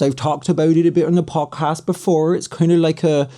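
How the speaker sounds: rustic West Country pirate voice; West Country accent. Shown as a demonstration. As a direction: roll it out like a West Country farmer. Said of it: "the traditional West Country accent kinda sounds like this".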